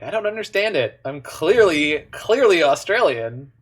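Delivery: lightly imitated posh Australian, baffled; posh Australian accent, leaning on the repeated word. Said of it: "such a posh Australian accent".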